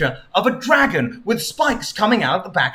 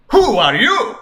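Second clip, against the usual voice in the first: lightly voiced king; 7 semitones higher, 5 dB louder than usual.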